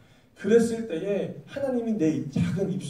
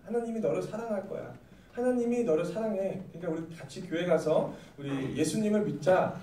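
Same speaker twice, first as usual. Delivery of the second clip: gentle coaxing; 7 dB quieter than usual. Retold or imitated. Deacon gently shares the gospel.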